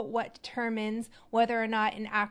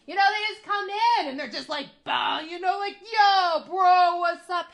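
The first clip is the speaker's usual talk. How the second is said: high, fast, shouted bro greeting from off the mic; mock shouting, stepped back from the mic; loud guy bursting in; 8 semitones higher, 7 dB louder than usual. Shown as a demonstration. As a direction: barge in yelling like an over-the-top bro. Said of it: "step away from my mic so I don't blow you guys up".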